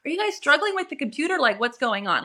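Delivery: high, fast and puzzled; confused question. Retold or imitated. Mother puzzled at the screaming doctors, high and quick. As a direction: act baffled by all the fuss.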